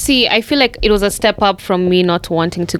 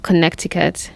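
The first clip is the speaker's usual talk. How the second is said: "Connecticut" said the Kenyan way, kə-NEK-ti-kut; kenyan accent; 4 dB quieter than usual. Shown as a demonstration. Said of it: "in the Kenyan voice".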